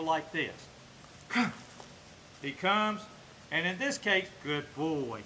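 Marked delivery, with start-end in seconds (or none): 4.4-5.2 low, drawn-out praise for a dog. Real, not acted. Trainer to his dog after it comes, low praise. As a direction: drop the pitch and stretch the praise.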